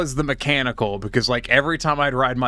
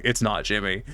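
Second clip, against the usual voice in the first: deadpan; 3 semitones lower, 4 dB quieter than usual. Retold or imitated. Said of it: "looking him deadpan and going".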